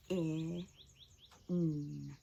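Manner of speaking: P-I-N spelled out slowly; sounded out slowly. Shown as a demonstration. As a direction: spell P-I-N letter by letter. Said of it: "Let's say it slowly".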